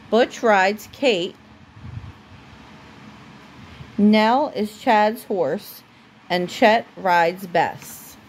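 steady storybook reading voice; reading to a child. Acted. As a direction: read it aloud for a little one at bedtime. Parent reads a story aloud to child.

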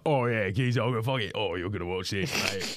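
geezer impression. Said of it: "This is just your impression of a geezer".

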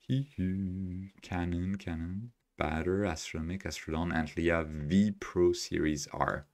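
very soft, low muttering; absent-minded, hushed list reading; muttering to self. Real, not acted. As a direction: read under your breath while scanning a list. Reading down a list while searching.

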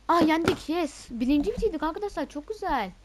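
loud, high cheering; real triumphant cheer after winning; victory shout. Real, not acted. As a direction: yell with joy at the win. Team wins the round.

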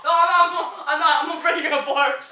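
laughing. Real, not acted. Laughing defensively.

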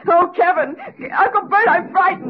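tearful, pleading fear; frightened and tearful. Acted. Wife to husband and uncle, frightened and tearful. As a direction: beg them for help through tears. Wife breaking down over hunger.

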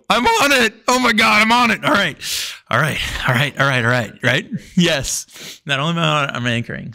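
buzzing with joy at making the relay; excited. Retold or imitated. Swimmer hearing he anchors the relay, excited.

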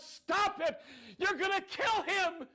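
high, desperate acted scream; crying out. Sibling begging soldiers to stop the whipping, desperate cry. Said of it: "I started crying out".

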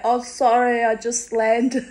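high, innocent child voice, imitated; little girl voice. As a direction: play the startled little girl. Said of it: "And I went".

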